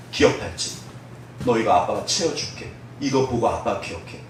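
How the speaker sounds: soft, hushed father's voice; a quiet, loving goodbye from a dad; tender father's farewell. Acted. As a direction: gently promise your son you'll stay. Dead father comforts crying son.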